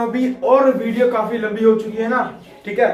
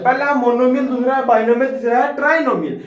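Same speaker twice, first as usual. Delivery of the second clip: pitched higher, energetic revision recap; quick revision; 4 semitones higher than usual. Shown as a demonstration. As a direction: rattle off the list like a recap for students. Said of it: "तो मैं fast बोलूंगा". (रिवीजन में ऊँची आवाज़ में जोशीला दोहराव)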